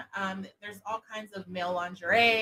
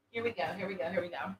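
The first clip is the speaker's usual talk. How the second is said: hushed and intimate, close to the ear; soft sexy voice; 3 semitones lower, 12 dB quieter, much faster than usual. Shown as a demonstration. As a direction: breathe it low and seductive. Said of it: "whisper in their ear and say things like".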